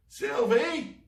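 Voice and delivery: high loud shout. Acted. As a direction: shout her name across the cavern. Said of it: "Spike shouted".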